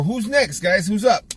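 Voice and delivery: a confident shout for the next customer; loud call to the shop. Shown as a demonstration. Barber calling out to waiting customers, loud and confident. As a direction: call out who's next across the room. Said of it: "That's the way I always call it".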